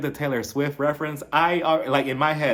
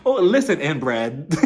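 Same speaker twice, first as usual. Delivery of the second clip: mock diva clapback; 2 semitones higher, 6 dB louder, slower than usual. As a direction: fling it like a reality-TV insult. Retold snappy comeback at picnic.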